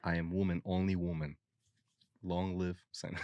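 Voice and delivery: mock Russian accent. Bantering as the arrested woman, mock Russian accent. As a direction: declare it as a joke Russian. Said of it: "I read it in a Russian accent".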